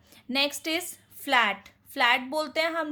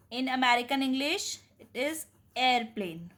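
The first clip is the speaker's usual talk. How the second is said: slow careful English; much slower than usual. Shown as a demonstration. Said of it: "teacher gives the American word".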